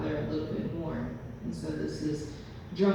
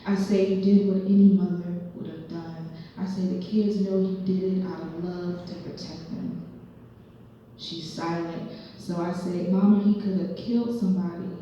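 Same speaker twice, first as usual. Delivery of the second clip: lightly performed spoken-word poem; measured poetry reading with punched phrases; poem recital; 6 dB louder than usual. Acted. Poet performing a monologue about her father, lightly dramatic recital.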